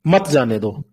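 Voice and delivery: "मत जाने दो" as one falling phrase; मत grouped with जाने दो. Shown as a demonstration. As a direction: say "मत जाने दो" without a break, stress on "मत". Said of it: "कॉमा यहाँ पे लगा दिया".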